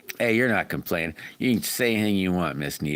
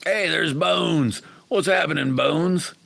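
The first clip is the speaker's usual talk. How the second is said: drawn-out, high, louder hello; happy greeting; 10 semitones higher, 4 dB louder, slower than usual. Real, not acted. Greeting a returning viewer in chat with a long, high hello. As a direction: call out a stretched welcome.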